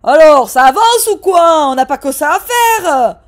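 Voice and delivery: a man in line protesting loudly. Acted. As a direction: grumble at the hold-up. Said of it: "Un monsieur a protesté".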